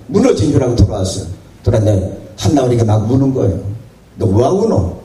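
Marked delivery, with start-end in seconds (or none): 4.2-5.0 asking in Gyeongsang dialect, the way a local father would; a plain question with a Gyeongsang dialect lilt. Retold or imitated. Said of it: "경상도 말로 물었습니다". (경상도 사투리로 묻는 말투)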